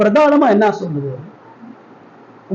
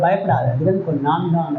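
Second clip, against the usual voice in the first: softer, tender comforting voice; gentle reassurance; 4 semitones lower, 4 dB quieter than usual. Shown as a demonstration. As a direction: soothe frightened disciples gently. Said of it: "ஆனா இயேசு பார்த்து சொல்றாரு".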